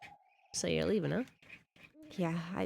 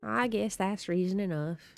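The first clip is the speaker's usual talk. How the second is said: slow, drawn-out acceptance; slow delivery; slower than usual. Acted. Conceding to a friend who is leaving, slowly. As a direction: take your time conceding the point. Same game line, read again slowly.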